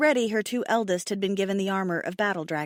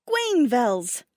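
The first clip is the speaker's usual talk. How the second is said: shouted; 3 semitones higher, 4 dB louder than usual. Acted. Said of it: "she shouted".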